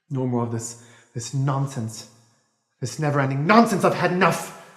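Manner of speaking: agitated outburst. Acted. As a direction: build to a fed-up outburst, then burst on NONSENSE. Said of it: "I still get so agitated".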